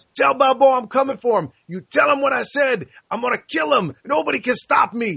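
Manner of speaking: high-pitched, over-the-top menacing tone. Retelling a movie scene where a boxer threatens: intimidating Clubber Lang impression. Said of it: "as intimidating, as scary as you can get".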